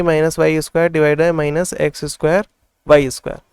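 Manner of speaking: slowed down, words spaced out; slow dictation. Shown as a demonstration. Teacher writing the third term on the board, slow dictation. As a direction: keep dictating slowly while writing. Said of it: "तो हम लोग लिख लेते हैं".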